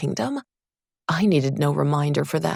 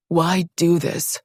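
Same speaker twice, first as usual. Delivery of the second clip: slow, loud, demanding question; 5 dB louder, slower than usual. Acted. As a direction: press him hard for an answer. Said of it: "he demanded".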